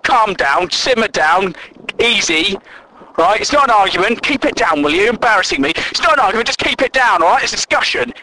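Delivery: mock someone shushing an embarrassing colleague; patronising calming down. Office pest trying to calm the annoyed bloke, patronising. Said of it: "Whilst trying to calm the bloke down".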